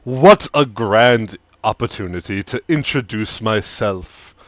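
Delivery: suave, measured stranger rising on the last words; smooth and amused, sizing them up; tiefling stranger. Acted. GM voices the tiefling NPC.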